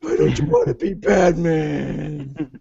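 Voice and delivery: flat mechanical robot voice. Pretend. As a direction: talk like a cold machine. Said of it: "What's wrong with my robot voice?".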